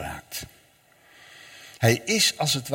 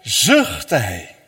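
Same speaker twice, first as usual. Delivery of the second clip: sighed; 4 semitones lower, 5 dB louder than usual. Shown as a demonstration. Preacher showing how Jesus sighed, sighed out low. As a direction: sigh the words out low. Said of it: "Hij zucht".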